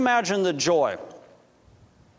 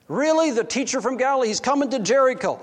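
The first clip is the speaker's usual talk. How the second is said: high, lifted "Really?" then eager; thrilled by the news; excited surprise; 5 semitones higher than usual. Acted. Zacchaeus hears Jesus is coming.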